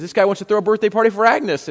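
half-yell it as if to the kitchen; mild retold yell. Harry calls to his wife in the kitchen, mild yell. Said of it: "Harry yells back to his wife".

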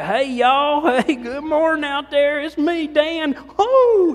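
high, loud hammed-up country hick greeting; biggest hick. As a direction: boom out a hick hello to the congregation. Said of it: "I sound like the biggest hick".

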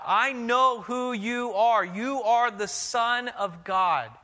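high, slow, eerie cry of the demon. Acted. Demon cries out to the teacher, high and slow. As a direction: drag the words out high like a cornered spirit. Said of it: "he cries out".

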